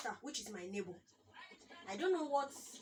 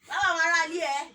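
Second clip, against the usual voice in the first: sharp, much louder call of Tawa; loud, higher angry call; yelled name; 5 semitones higher, 13 dB louder than usual. Retold or imitated. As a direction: bark the name across the room. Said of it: "I said".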